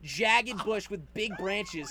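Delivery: slow right down for emphasis; slow emphatic. Real, not acted. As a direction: drag the words out slowly, with a laugh. Stressing the bush description.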